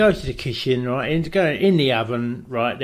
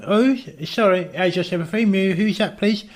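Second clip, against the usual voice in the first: mock polite self; 5 semitones higher than usual. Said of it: "I'm going".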